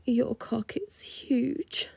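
slow, awed whisper. Acted. Stewardess marvelling at the client, slow whisper. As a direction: breathe it out in disbelief.

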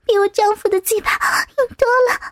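put-on high, meek young woman voice; soft submissive reply. A narrator's reading. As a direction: answer small and timid. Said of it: "雨雪细声软语的回答".

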